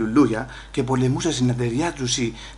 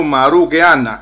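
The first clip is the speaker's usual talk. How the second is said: yell; 6 dB louder, slower than usual. Retold or imitated. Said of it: "don't scream like that".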